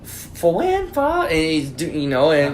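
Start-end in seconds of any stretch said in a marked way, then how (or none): 0.0-1.2 high, confused mock Asian accent; imitating a flustered restaurant lady's accent; bad Asian accent. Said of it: "it's a bad Asian accent".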